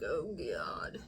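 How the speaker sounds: whispered cat groan; a weary cat muttering under its breath; annoyed cat. Retold or imitated. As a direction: sigh it like a fed-up cat. Voicing the annoyed black cat.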